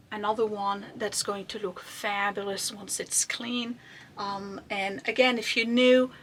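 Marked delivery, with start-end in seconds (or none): 0.1-3.8 a confiding whisper aside; hushed secret-sharing whisper. Real, not acted. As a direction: lean in and whisper it. Confiding aside about vase.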